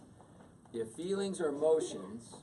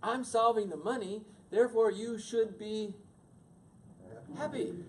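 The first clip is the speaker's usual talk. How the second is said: high, loud, fast protest; a husband sure he fixed it, higher and louder; exasperated husband; 8 semitones higher, 5 dB louder than usual. Retold or imitated. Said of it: "And then I go".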